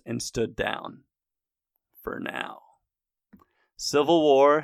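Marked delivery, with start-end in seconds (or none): 2.0-2.6 ominous whisper. Acted. Ominous aside after crisis averted.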